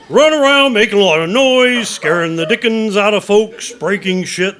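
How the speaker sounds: loud, high, gleeful bragging; rowdy boast. Acted. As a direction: revel in the mayhem you cause. Boasting of monster rampages.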